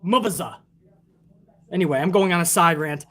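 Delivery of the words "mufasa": mock know-it-all commentator. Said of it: "he's pretty much like".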